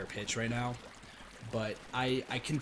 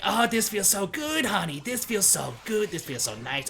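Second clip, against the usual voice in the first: flamboyant Waluigi voice; 3 dB louder than usual. Retold or imitated. Waluigi describing the naked clone race, exaggerated camp moaning. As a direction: ham up the blissful moans in the camp Waluigi voice. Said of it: "kept doing that".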